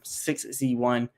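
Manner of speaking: stumbling over the numbers; tripping over the words, halting; stuttering. Real, not acted. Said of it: "I just kept stuttering there".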